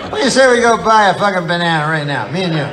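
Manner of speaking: high, gushing over-the-top enthusiasm; delighted like a kid about bananas; hammed-up childlike glee; giddy excitement. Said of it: "I go".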